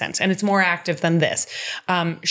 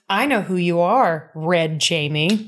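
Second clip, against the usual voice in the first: sly threatening Geneva. Retold or imitated. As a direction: savour each word of the threat. Reads Geneva's blackmail threat.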